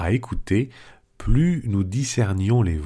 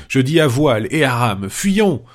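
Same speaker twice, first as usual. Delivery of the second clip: higher and louder, frantic cries of a coward at sea; panicked outcry; 4 semitones higher, 3 dB louder than usual. Acted. Panurge to his companions hearing voices, panicking. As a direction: yelp it out like a man sure he's about to die. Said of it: "Panurge s'écria".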